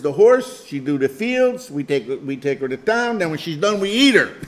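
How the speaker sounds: put-on grandpa explaining in a light French accent. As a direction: imitate French-accented grandpa, punching start and finish. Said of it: "had the French accent".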